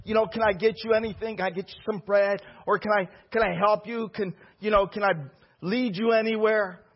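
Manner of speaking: lightly voiced eager helper, fussing over him; mock fawning servant. Crowd fawning over Jesus, mock sugary offers. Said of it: "They're trying to be all religious".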